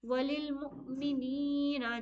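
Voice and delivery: slow, with a sharp glottal catch in मुमिनीना; jolted hamza. Shown as a demonstration. Teacher demonstrating the jolt on hamza. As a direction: read वलिल मुमिनीना slowly with a clipped hamza stop. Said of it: "हमजा के साथ जज्म ... झटका के साथ पढ़िएगा".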